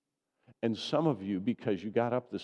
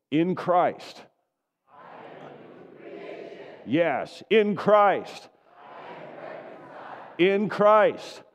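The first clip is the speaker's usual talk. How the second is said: very loud, far higher triumphant shout; shouted declaration; 9 semitones higher, 9 dB louder, much slower than usual. Real, not acted. Pastor leading the church in shouting their identity, full-throated shout. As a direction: cry it to the heavens. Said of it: "shout it to the heavens".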